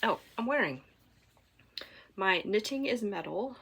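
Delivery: ordinary delivery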